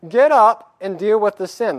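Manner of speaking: high, loud, sharp call to get up; God rebuking a weeping Joshua, loud; stern rebuke. Acted. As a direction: shake him out of self-pity. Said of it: "And God says".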